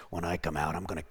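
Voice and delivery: very low, soft menacing growl; demonic male voice. Retold or imitated. Demon speaking through a woman to Mark, deep male menace. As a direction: threaten in a deep, quiet demon voice. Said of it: "in a male voice".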